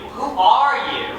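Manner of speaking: said out loud. Retold or imitated. Husband finally asking his wife aloud. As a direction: let the question finally come out. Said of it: "one day you say it out loud".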